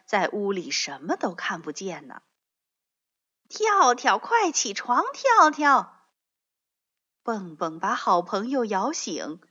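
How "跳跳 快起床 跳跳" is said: loud call to wake a sleeping friend; urgent wake-up call. A narrator's reading. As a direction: shake him awake with your voice. Waking his friend.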